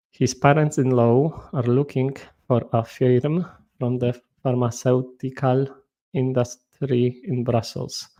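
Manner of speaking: English read with a thick Polish accent; mild Polish-accented English; typical Polish accent. Shown as a demonstration. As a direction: read it the way a Polish student would. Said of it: "zawsze czytam w typowym akcencie polskim".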